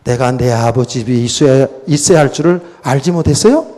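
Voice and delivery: composed, low-key question, lifting at the end; matter-of-fact. Retold or imitated. Young Jesus answers his parents in the temple, matter-of-fact. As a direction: answer evenly as if it were obvious. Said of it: "철은득하게".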